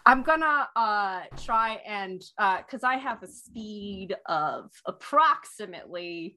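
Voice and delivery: slow rumbling dragon voice; half-dragon voice. Acted. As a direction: speak slowly as a large dragon. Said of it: "talking in this voice".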